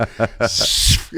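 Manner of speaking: imitated blast. Imitates mushroom cloud blast after setup.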